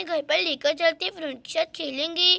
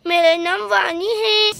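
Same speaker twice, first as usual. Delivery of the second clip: crying; 4 dB louder, slower than usual. Acted. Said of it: "आप क्यों रो रही हैं".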